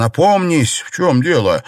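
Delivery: high, loud alarmed cry; shouting. A narrator's reading. Lady Wang shouting at her son in alarm. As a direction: shout him back to his senses. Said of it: "закричала госпожа Ван".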